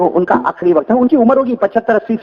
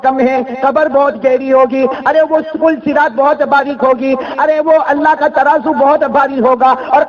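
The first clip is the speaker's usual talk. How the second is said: slow lament; 4 semitones higher, slower than usual. Acted. Saint laments his few deeds.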